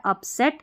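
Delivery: अपसेट with pressure on सेट; अपसेट, weight falling on its last syllable सेट; stress on final syllable. Shown as a demonstration. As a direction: lean on सेट at the end of अपसेट. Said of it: "दबाव पड़ रहा है".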